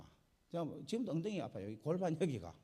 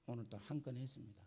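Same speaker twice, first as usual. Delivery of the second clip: content report; 5 semitones lower, 8 dB quieter than usual. Retold or imitated. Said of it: "올 때 이렇게 합니다".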